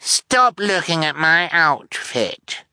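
high, drawn-out spoiled brat; scornful spoiled child; scornful command. A narrator's reading. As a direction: order them off in a high, bratty voice. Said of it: "she commanded the Baudelaire scornfully".

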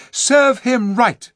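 scornful. Acted. Eustace scorning the monkey.

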